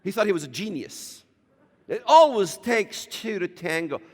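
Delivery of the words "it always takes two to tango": a lightly put-on English accent on "It always takes two to tango"; mock English accent. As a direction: mimic the BBC man's English accent, half-mocking. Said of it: "You know that English accent?".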